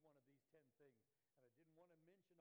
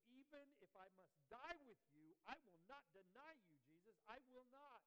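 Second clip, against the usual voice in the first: bold vow; 7 semitones higher, 11 dB louder than usual. Acted. Peter vowing loyalty to Jesus.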